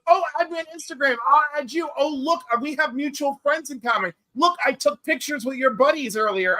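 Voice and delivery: lightly voiced pushy stranger, quick and keen; mock eager guy. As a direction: rattle it off like a clingy fan begging. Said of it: "is like".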